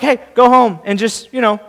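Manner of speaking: casual, easy send-off; relaxed and offhand; easygoing. Acted. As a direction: tell him lightly there's no hurry. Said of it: "he says it in such a way like".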